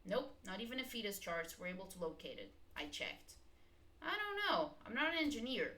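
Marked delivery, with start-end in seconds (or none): 4.0-5.7 high-pitched flustered protest, a bit louder. Acted. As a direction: throw up your hands, rattled. Pressed for answers, defensive.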